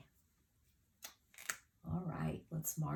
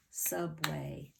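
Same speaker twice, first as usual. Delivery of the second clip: SUBWAY said as two distinct beats; Subway split evenly into syllables; clapped syllables. Shown as a demonstration. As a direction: clap out Subway, sub then way. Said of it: "so let's clap it".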